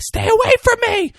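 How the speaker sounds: high shrieking stay away from me; imitated scream. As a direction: shriek it like a terrified girl in the cafeteria. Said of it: "She's screaming".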